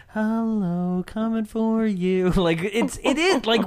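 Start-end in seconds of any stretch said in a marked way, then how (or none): 0.1-2.3 high eerie ghost croon; unearthly voice. Acted. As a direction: sing it out like a creepy ghost. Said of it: "that's the first ghost voice that you hear is a lullaby".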